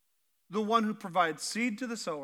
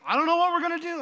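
higher, louder panicked cry; panicked Israelites; 9 semitones higher, 7 dB louder, faster than usual. Acted. Israelites at the Red Sea crying out in panic.

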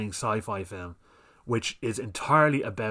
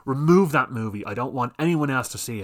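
louder, hammed-up demand; mock demanding complainer; 3 semitones higher, 5 dB louder than usual. Mocking an offended viewer loudly demanding a ban. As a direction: parody an outraged viewer ordering a film gone. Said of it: "and go".

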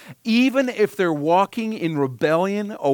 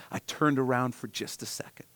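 defensive whisper; 5 dB quieter than usual. Retold or imitated. Parent defends self in quarrel.

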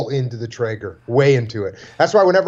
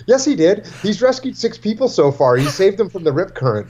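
put-on girlfriend defending; 5 semitones higher than usual. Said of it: "his girlfriend goes".

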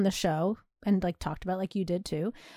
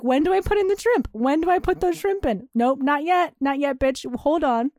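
higher, hammed-up eager cook; mock impatience; 4 semitones higher than usual. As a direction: play at scolding your own impatience. Acts out impatient self while cooking.

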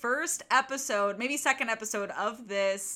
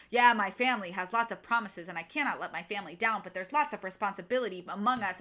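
retold vague anecdote; 4 semitones lower, faster than usual. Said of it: "this weird little anecdote".

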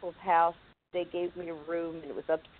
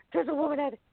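put-on scared kid; 8 semitones higher, faster than usual. Kid panics to mom.

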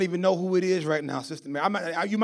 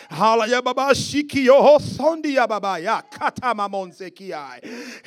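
praying in tongues; 5 dB louder than usual. Real, not acted. Prays in tongues.

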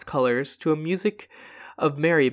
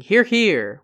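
cheering approval; 7 semitones higher, 5 dB louder than usual. Acted. Toasting approval during a speech.

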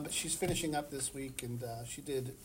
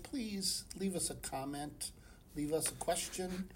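soft, slow pleading ask; groveling; 6 dB quieter than usual. Real, not acted. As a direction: beg the listeners quietly. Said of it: "I sound like I'm begging".

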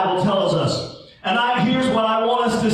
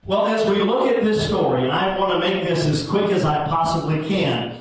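rising sermon fervor; preaching. Acted. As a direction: preach it to the congregation, building. Preaching builds, raised pitch.

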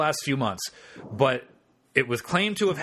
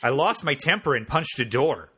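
lightly done bad Wisconsin accent; half-hearted Wisconsin accent. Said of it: "should I try to do a bad Wisconsin accent".

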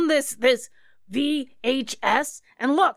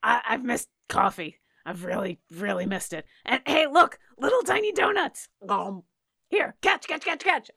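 character voice; 2 semitones higher than usual. Acted. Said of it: "And she'll say".

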